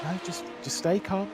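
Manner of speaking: race engineer voice. Retold or imitated. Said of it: "my race engineer voice".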